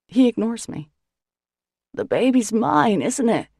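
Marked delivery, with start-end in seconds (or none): 1.9-3.5 bellowing. Acted. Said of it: "he bellows".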